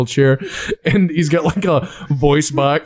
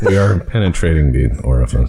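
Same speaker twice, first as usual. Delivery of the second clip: mock captain; 10 semitones lower than usual. Captain orders ramming V'ger.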